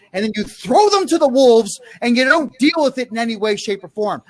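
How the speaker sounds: scolding yell, fast. Real, not acted. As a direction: keep hammering them. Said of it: "Now I'm gonna yell at you for this".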